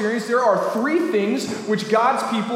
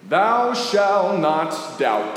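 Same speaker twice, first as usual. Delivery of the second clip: solemn decree; much slower than usual. Acted. Pastor voicing Jesus commandment.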